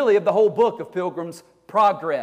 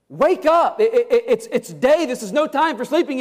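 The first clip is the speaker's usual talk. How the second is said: higher, pressing call; urgent pleading; 6 semitones higher than usual. Acted. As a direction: insist there's no time to sleep. Christian pleads again.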